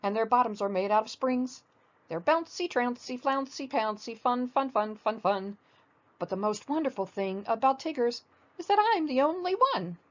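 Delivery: chirpy, playful Tigger boasting; a hint of Tigger's bouncy sing-song.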